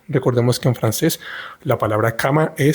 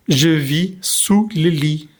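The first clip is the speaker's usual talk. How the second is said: monster voice; 3 semitones higher, much slower than usual. Acted. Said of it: "dice el monstruo".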